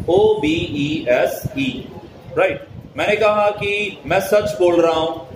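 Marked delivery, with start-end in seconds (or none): none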